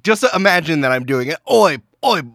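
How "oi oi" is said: higher-pitched, badly faked Irish character voice; terrible Irish accent. Guest pretends to be a masked impostor, terrible Irish accent. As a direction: call out in a hammy, botched Irish accent. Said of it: "doing a terrible Irish accent".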